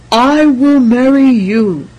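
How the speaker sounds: loud, slow, far-reaching vow; joyful declaration. A narrator's reading. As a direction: proclaim it for all to hear. Prince joyfully proposes.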